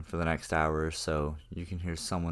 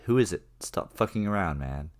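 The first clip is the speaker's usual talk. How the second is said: yelling at something outside the door, half-scared; retold yell; 3 semitones higher, 5 dB louder than usual. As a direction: shout it through the door, scared. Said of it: "We keep yelling outside".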